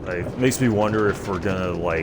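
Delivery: slightly nasal, stuffy voice. Real, not acted. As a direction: talk through a blocked nose. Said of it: "I do sound, like, a little, little nasally".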